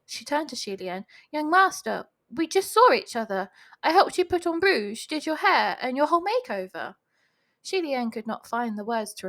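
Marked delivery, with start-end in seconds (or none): 1.3-6.9 higher-pitched flustered pleading. A narrator's reading. Accused girl appeals to young master, flustered. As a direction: plead for him to back you up. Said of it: "she waved in a fluster".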